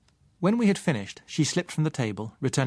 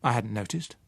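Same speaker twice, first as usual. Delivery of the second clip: indifferent. Acted. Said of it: "I said indifferently".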